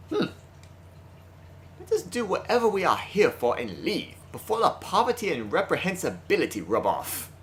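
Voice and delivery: a hint of a cold, haughty lord; haughty noble voice. Sakuya voiced with disdain.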